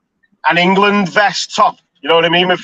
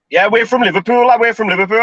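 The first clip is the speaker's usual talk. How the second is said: slightly raised, eager claim; mock boasting lads; 4 semitones higher than usual. Lads met on holiday claiming Liverpool, mock eager. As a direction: imitate lads laying claim to their city.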